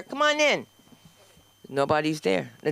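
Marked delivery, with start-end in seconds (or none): 0.0-0.7 receptionist's line. Retold or imitated. Receptionist voiced in story.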